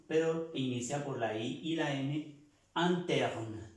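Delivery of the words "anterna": anterna with the I sounding a. Shown as a demonstration. Teacher shows I sounds like A. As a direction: say anterna beginning with a. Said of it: "Esa I suena A o se pronuncia A".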